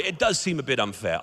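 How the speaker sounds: ordinary talk, nothing marked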